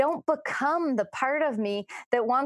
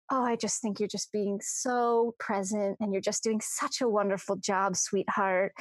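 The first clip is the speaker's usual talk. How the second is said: softer, gentle motherly praise; nurturing voice; 3 dB quieter than usual. Retold or imitated. Imagined nurturing self praises her, softly motherly. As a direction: coo like a loving mother figure. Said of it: "the most nurturing, loving".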